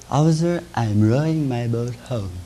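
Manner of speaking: put-on slow, slurred drunk Irishman. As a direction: drawl it out like a drunk. Drunk answers policeman.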